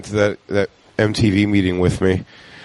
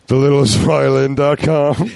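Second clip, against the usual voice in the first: deadpan reply; 5 semitones higher than usual. Retold or imitated. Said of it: "He goes".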